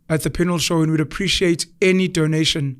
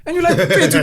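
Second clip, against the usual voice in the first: exasperated cry; 9 semitones higher, 4 dB louder than usual. Retold or imitated. Mock exasperated cry to brother.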